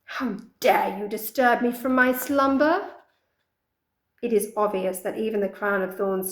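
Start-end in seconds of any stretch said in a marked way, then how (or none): 0.0-2.9 angry. Acted. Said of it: "She angrily addresses the rabble below".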